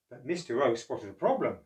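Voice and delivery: steady read-aloud; storybook narration. Acted. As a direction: narrate for children.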